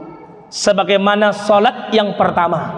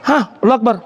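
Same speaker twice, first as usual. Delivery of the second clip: clipped gasp takbir; much faster than usual. Shown as a demonstration. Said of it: "Sampai sini aja".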